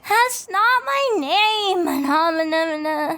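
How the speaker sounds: tipsy teasing. Acted. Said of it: "Twy is drunk".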